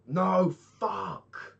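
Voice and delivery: real high, loud outburst; frustrated yell. Real, not acted. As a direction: yell in dismay at your own slip. Mistake while crafting in game.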